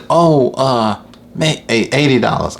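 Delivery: mock customer hemming before a cheap price; hesitant lady. Haggling lady names low price.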